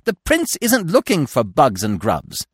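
a touch of indignation, each word weighed; scolding squirrel. A narrator's reading. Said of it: "rushed up and scolded him".

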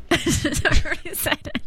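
high teasing echo of the line; mocking echo. Mocking partner's line back.

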